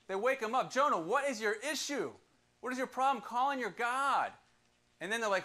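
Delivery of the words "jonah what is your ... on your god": higher, demanding crew voice, slowing at the end; exasperated crew. Retold or imitated. Sailors waking Jonah in a storm, exasperated. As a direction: scold him like a fed-up sailor.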